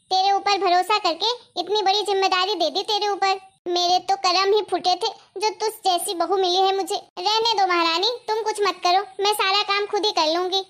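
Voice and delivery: बहू को कोसती, शिकायती सास; ताना मारकर डांटो; ताने भरी डांट. Acted. (सास की ताने भरी फटकार)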